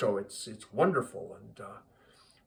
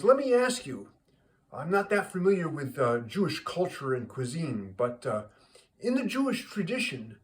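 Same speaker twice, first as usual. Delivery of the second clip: lightly acted naive questioner, pitched up; Biden; 4 semitones higher, 4 dB louder than usual. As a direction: ask in a higher joke-character voice. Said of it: "he turns to Netanyahu".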